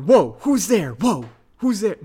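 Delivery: a spacey dude calling out; Bill and Ted voice. Retold or imitated. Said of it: "I turned him into Bill and Ted".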